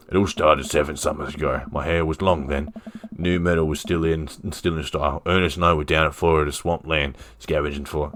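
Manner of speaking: lightly Australian reminiscing; Robert, Aussie accent. Acted. Robert gets wistful about seven summers ago, light Aussie accent. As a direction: tell an old tale in a light Aussie accent. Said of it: "He was Aussie, right?".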